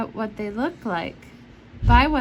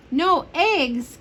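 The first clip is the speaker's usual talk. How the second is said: higher, louder shocked cry of the farmer; dismayed cry; 6 semitones higher, 3 dB louder than usual. A narrator's reading. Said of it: "cried Farmer Brown".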